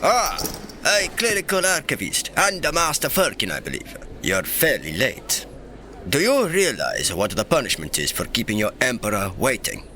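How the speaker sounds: mock-stern emperor voice; lightly pompous ruler taking someone to task; put-on emperor. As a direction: play the displeased sovereign. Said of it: "It's so hard to keep that up".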